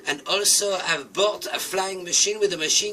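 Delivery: a bird turned villain bellowing down at the flock who mocked him; villainous triumphant shout. Morris gloats then threatens friends.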